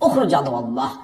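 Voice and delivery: firm exorcism command. Shown as a demonstration. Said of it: "মাঝে মধ্যে কিন্তু এভাবে বলবেন".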